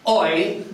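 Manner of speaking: "oi" said as a clear syllable; "oi" held up as an example sound; demonstrated syllable. Shown as a demonstration. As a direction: pronounce "oi" to rhyme with boy. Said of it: "is pronounced".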